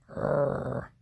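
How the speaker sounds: low rolled growl; bear growl. Acted. Old Bear grumbles at Baba Braina, low growl.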